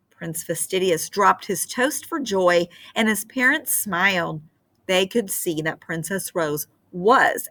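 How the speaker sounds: put-on gentle read-aloud for children; storybook narration. A narrator's reading. Teacher reading a fairy tale to her class, gentle storytelling. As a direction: tell the tale like a bedtime story.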